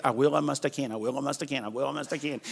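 quiet, fading repeated chant; murmured mantra. Retold or imitated. Preacher imitating how most believers live, quietly. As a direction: mutter it like a tired routine.

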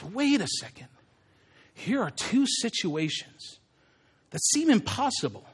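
very soft, deliberate musing; hushed dawning realisation. Acted. Peter as something clicks in his brain, musing. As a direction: reason it out under the breath.

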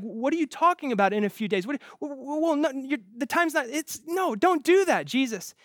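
flustered, stammering panic, fast, pitch climbing; mock-panicked disciples pleading; freaking out. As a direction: sputter in alarmed disbelief, tripping over words. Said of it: "And they all freak out".

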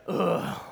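breathy unvoiced ugh; exasperated ugh; audible disgusted grunt. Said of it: "I did make a".

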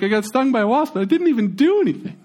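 put-on teary kid. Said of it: "He's like".

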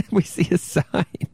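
rereading it through a giggle; laughing. Real, not acted. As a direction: laugh while repeating the words. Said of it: "Now we see a sign".

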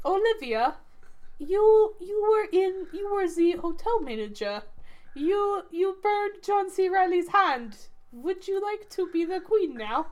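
mock Greek director accent. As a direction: imitate Yorgos in a light Greek accent. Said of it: "spot-on Yorgos Lanthimos accent".

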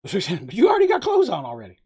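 quoting through a laugh; laughing as he recalls Moogs' line; laughing retell. Real, not acted. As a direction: repeat the line while laughing.

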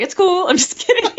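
high, light mock reassurance; a hammed-up, squeaky take on the director; imitating the director, joking back. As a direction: play the director teasing her back. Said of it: "He's like".

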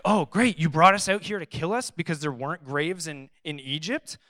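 dry mock sarcasm, lightly played; a touch of sarcasm; sarcastic. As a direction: sneer it back as a fed-up crowd. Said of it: "just slight sarcasm there".

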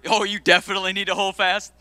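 mock scolding with a laugh; playful neighbor jab; teasing through laughter. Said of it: "tell your second choice neighbor".

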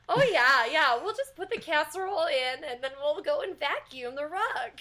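put-on a light Midwestern accent, folksy. With boyfriend, loading vacuum, light Midwestern accent. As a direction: sound like a cozy Midwestern homemaker. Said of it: "like, Midwestern accents".

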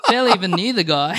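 quick words through laughter; laughing through words. Real, not acted. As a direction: chuckle while saying it. Laughing while telling punchline.

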